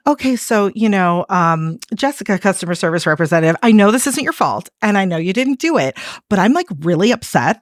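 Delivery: a caller calmly reassuring the agent it isn't her fault. Retold or imitated. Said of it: "And I'll be like".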